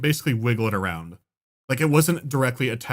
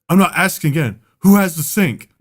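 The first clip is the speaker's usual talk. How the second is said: louder, raised mock principal; lightly voiced stern principal; mild principal threat; stern teacher demand; 4 semitones higher, 6 dB louder than usual. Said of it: "that adult teacher yelling voice".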